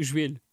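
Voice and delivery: joelho said as /ʒueʎu/ mocking her; imitating accent. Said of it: "Mas tu dizes jo".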